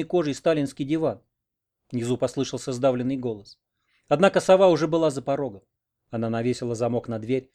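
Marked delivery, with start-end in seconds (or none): none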